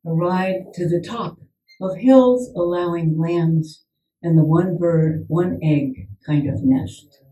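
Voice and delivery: measured poem reading with long pauses between images; poetry reading. Acted. Poet reading her Ballinskelligs poem to the audience, measured. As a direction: let each image land, unhurried.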